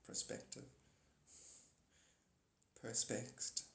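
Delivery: breathy whisper, barely voiced; a soft whisper, almost to yourself; whispered echo. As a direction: let the word hang in a hush. Repeating a word for effect.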